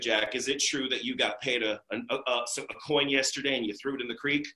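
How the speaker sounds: put-on low, deadpan bored girl; flat grumpy girl. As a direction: grumble it like a girl who never laughs. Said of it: "she's like".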